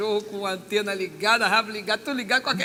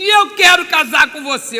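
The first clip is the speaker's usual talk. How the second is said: a much louder blurted proposal; loud declaration; 5 semitones higher, 16 dB louder than usual. Retold or imitated. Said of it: "Ele falou assim".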